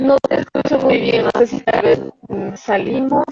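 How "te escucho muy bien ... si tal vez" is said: breaking up on the call; cutting in and out, low robotic; choppy audio. Real, not acted. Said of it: "Se le escucha a Lore súper entrecortado".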